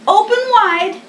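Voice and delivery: lightly voiced hare. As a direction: Hare checking Bear's mouth. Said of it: "Hare said".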